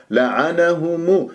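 لعنهم slow, mim thin with rounded lips; light mim. Shown as a demonstration. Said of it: "خطأ".

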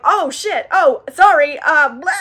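mock flustered apology, breaking into laughter; Memnoch. Demon apologizing for an eyeball, mock freaked out. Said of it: "Memnoch freaks out".

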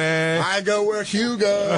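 slow, high goofy voice; dopey voice. Retold or imitated. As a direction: drawl it out like a dimwit. Mocking dumb Hugo confusion.

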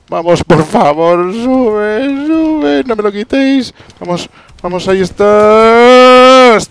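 shrill begging, drawn out; high pleading yell. Real, not acted. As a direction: beg the game at the top of your voice. Suplica al juego, grita agudo. (súplica aguda a gritos)

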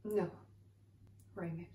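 searching soliloquy. Acted. Actress monologue to Raymond.

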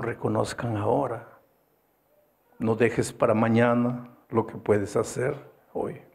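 tender appeal. Acted. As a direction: gently urge the couples.

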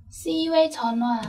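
very slow, careful teacher demo; slow model reading. Shown as a demonstration. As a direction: say each syllable slowly for the class. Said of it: "là si uê Chòn Hoa".

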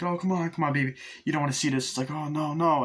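a touch of worried pleading; mild mock panic. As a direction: lightly act out a panicking parent. Panicking mother and kid retold.

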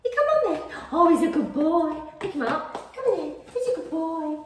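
high-pitched doting coo. Real, not acted. Coaxing the good boy onto a lap, cooing. Cooing welcome to a pet or child.

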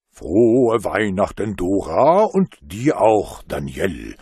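put-on booming, slow Santa greeting to the children; Santa's greeting. A narrator's reading. Père Noël greets two shy children, slow and booming. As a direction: draw out a hearty Christmas wish. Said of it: "grüßte er".

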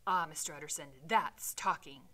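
the butler cheering the lawyer's resolve; eager cry. Acted. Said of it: "cried the butler".

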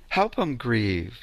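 slow "Help 'em grieve" with a rise on "em"; slow, rising. Shown as a demonstration. Healer to listeners, slowly adding to the advice. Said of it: "Let 'em grieve".

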